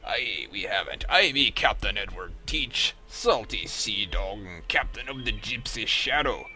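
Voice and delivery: put-on boastful old sea captain; crusty pirate voice. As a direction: swagger like a salty sea dog. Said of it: "do you like my crusty pirate voice".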